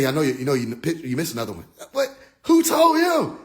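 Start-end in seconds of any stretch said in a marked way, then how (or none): 0.0-1.6 low, soft alien taunt; mock alien voice. Alien repeating the taunt, low and soft. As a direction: drop low and quiet to mock them. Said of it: "He said".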